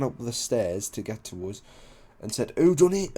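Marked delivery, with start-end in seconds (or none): 2.6-3.2 imitated irate questioning, higher and louder; angry demand. Man runs upstairs to the lads, angry demand. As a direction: demand the culprit sharply, voice raised.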